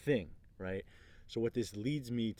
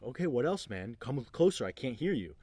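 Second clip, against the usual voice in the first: unfazed challenge; 3 semitones higher, 4 dB louder than usual. Retold or imitated. Leader Larry challenges a heckler.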